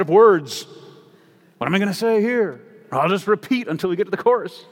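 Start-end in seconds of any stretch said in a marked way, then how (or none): 1.6-4.7 lightly voiced songwriter musing aloud, a bit higher; mock hymn writer. Preacher voicing an imagined hymn writer, lightly mocking. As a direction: toss it off like a lazy lyricist filling beats. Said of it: "The author of the hymn".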